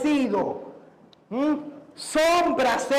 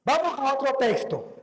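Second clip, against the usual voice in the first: ordinary talk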